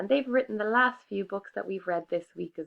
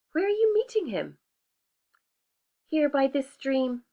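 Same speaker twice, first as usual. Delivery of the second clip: higher, sweet mouse voice; prim little mouse declining; polite little mouse; 4 semitones higher than usual. Acted. Mouse character voice.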